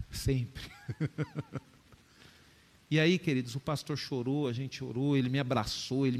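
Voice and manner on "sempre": laughing. Real, not acted. Laughing at his own joke.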